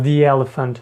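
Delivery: "the" in "the elephant" said as "thee" with a long ee; pron: "the" as "thee". Shown as a demonstration. Teacher shows learners "thee" before vowels. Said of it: "якщо слово в нас починається з голосного".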